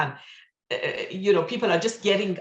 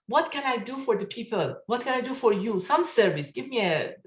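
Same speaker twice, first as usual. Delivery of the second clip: mildly pleading, slightly raised pitch; retold begging; 4 semitones higher than usual. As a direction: imitate an eager plea, lightly acted. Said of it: "he begs Baha'u'llah".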